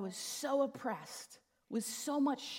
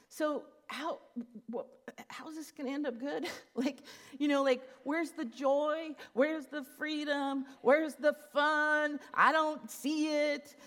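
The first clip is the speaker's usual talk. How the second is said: rising, louder pleading, slowing down; pleading question; 5 semitones higher, 4 dB louder than usual. Retold or imitated. To Jesus, asking where the joy is, rising plea. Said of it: "I say".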